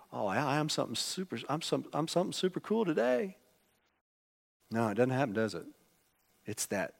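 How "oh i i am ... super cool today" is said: mock puffed-up. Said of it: "It's like".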